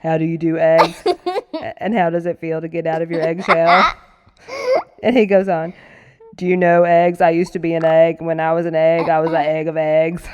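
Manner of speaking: mock-grand creature voice. Yonder speaks to frying eggs.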